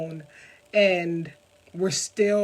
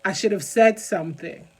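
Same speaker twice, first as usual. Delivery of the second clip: real emotion pushing the voice louder; emotional; 5 dB louder than usual. Real, not acted. Speaker apologizing for getting so emotional about childhood blame, emotional. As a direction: speak with heartfelt, insistent force. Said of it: "I'm sorry if I get so emotional about it".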